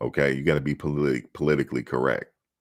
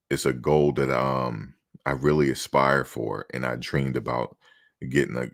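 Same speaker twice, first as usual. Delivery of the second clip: humble. Shown as a demonstration. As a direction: play the grateful, humble draft prospect. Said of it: "You gotta be humble".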